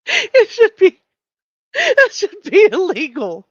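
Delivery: squealing through helpless laughter, high and loud; crying with laughter at the video; laughing hard. Real, not acted. Host to chat, crying with laughter. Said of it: "I should not be laughing this frickin' hard".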